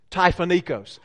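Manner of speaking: Southern twang, syllables run together; Southern-twanged Greek at a natural pace. Shown as a demonstration. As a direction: say the Greek word in one go, Southern-style. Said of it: "say it with a southern twang".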